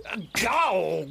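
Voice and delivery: a sudden shouted insult; drunken shout. Acted. Drunk man shouting an insult at the rogue. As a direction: bark the insult out.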